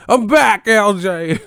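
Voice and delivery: very high, loud squeaky voice; squeaky character voice. Retold or imitated. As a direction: squeal it out in a cartoonish voice. Imitating the Bill Cosby chatter.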